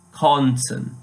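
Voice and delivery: "Konnten" alone, with a clear open O; emphatic konnten. Shown as a demonstration. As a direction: stress the first syllable of "Konnten", no umlaut. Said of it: "I put a lot of emphasis".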